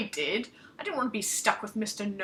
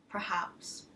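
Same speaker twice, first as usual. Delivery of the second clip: breathy, hushed musing; musing crone; 3 semitones lower, 7 dB quieter than usual. Acted. Crone considering the wisps, hushed musing. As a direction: think it over under your breath.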